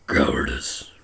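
low, deadpan one word; gruff character voice. Acted. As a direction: say it deep and dry.

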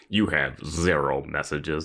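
slow, measured machine announcement; answering machine. Retold or imitated. Phone message machine telling her nobody called, slow lightly robotic announcement. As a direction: lightly imitate an automated message voice. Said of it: "is there a part where he goes".

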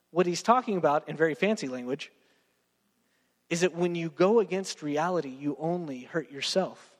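usual speaking voice

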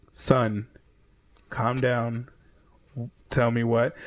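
lightly voiced steadying father-figure; calm, measured authority. Clark settling down the man he caught, understated calm. Superman calming a masked man.

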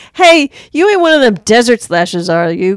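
loud imitation building to a high frantic yell; mock panic. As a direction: start wary, climb into hammed-up hysterics. Acting out panicked carjacker from film.

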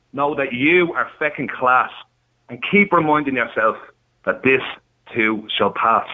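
measured recital in short phrases with pauses; poem read out on air. Acted. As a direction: read a heartfelt verse aloud, line by line. Reads his own poem.

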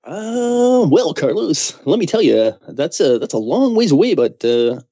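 high, slow cheesy DJ; hammed-up radio announcer; radio host voice. Answers in radio voice.

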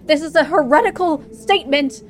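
lightly voiced stern priest; a hint of indignant clergyman. Priest scolding intruder.

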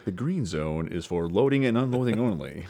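lightly voiced airport PA announcement; airport announcer. Teasing the sound man's speakers at church, light airport announcer. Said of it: "I felt like I was in the, um, airport with him going".

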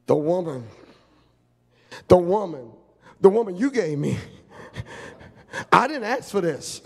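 lightly voiced excuse-making man; a hint of a defensive husband; whining excuse. Adam blaming Eve to God.

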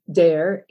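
"dare" with a hard D for the TH of there; UP dialect sound. Shown as a demonstration. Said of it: "you'll hear those pronounced".

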